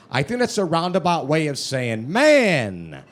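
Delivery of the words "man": condescending. Retold or imitated. Mocking imagined put-down.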